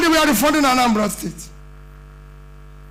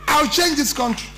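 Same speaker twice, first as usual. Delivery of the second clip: rousing shout; 3 semitones higher than usual. Real, not acted. Rallying close of campaign speech.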